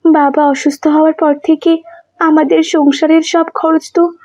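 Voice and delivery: younger sister's voice. Acted. Younger sister scolding her elder sister, high and pleading. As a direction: plead with her not to carry everything alone. Narrator voices Saima protesting.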